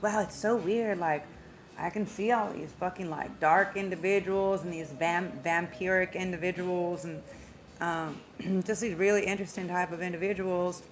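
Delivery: quoting friends with a slight Southern drawl; lightly drawled, wondering Southern voice. Retold or imitated. Reader quotes friends in a slight Southern drawl. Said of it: "I don't know why I have a Southern drawl".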